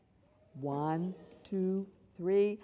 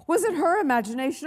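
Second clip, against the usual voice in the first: higher, quick anxious wondering; nervous whiny girl; 6 semitones higher, faster than usual. Acted. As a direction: squeak out the worry. Susan voiced higher.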